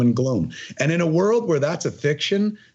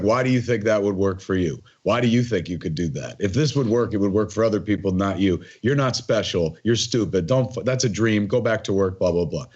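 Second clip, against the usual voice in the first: a lower, lightly voiced nagging doubt; a hint of a sneering inner critic; 6 semitones lower than usual. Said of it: "Then there's a second voice".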